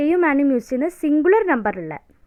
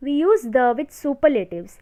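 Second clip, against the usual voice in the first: slow, word-by-word dictation for notes; much slower than usual. Shown as a demonstration. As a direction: read the rule out slowly so students can write. Dictating rule slowly.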